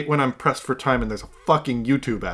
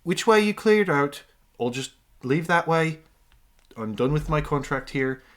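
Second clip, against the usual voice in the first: attempted Irish accent. Game master voicing a fighter done with his contract, attempted Irish accent. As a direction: bargain in a light Irish accent. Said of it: "how to do this fucking accent".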